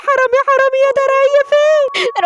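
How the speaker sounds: high-pitched anxious lament; acted panicky recounting; distraught mother. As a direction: fret aloud over your stolen child. Mother recalls daughter's screams.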